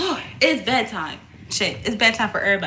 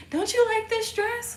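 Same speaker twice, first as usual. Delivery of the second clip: mock grandma; 11 semitones higher, 3 dB quieter than usual. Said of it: "my grandma and my mom be like".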